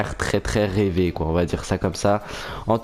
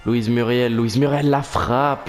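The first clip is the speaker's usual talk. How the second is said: french sports commentary. Acted. Live play-by-play commentary.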